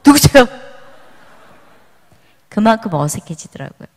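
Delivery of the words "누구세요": loud, high startled question. Retold or imitated. Returning family member met like a stranger, startled. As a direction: act out jumping at a stranger. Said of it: "깜짝 놀래요".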